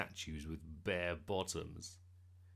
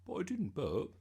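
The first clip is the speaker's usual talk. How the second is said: put-on higher, louder indignant boy; protesting; 7 semitones higher, 5 dB louder than usual. A narrator's reading. Bertie told to say pardon, protesting. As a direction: object as if wrongly accused. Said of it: "protested Bertie".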